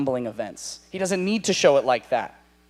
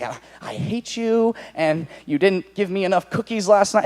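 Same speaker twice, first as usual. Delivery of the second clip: mock sulky kid writing to parents; pouting twelve-year-old; 4 semitones higher than usual. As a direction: whine like a runaway child. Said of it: "like, a twelve-year-old".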